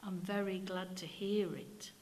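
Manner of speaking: soft, kindly vicar; a kindly vicar pleased with the boy. Acted. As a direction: say it gently to the child. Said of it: "he said in a kindly tone".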